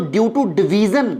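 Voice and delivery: very slow, each word spelled out; slow emphasis. Shown as a demonstration. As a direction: drag out due to division for the class. Teacher stressing key phrase slowly.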